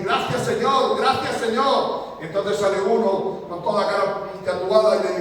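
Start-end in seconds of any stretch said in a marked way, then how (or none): 0.0-1.0 raised, eager thanks; a poor man thanking God for the food that fell at his door, raised and eager; grateful cry. Retold or imitated. Quick grateful outburst. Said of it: "empezó a decir". 1.0-2.2 gracias, Señor drawn out very slowly and raised; a poor man thanking God again, slowly and in awe; slow grateful thanks. Retold or imitated. Slow, drawn-out gracias, Señor. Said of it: "empezó a decir".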